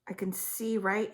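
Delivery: voiceless hush as the vision comes; whisper. Real, not acted. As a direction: breathe the words as if seeing it now. Psychic describing a vision.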